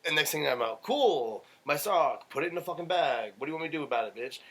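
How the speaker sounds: retold angry outburst. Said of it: "he held it up like".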